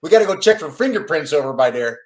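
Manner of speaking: loud, thick Chicago cop read; hammed-up Chicago accent audition read; Chicago-accented FBI agent. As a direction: bark the line in broad Chicago. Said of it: "an F B I agent".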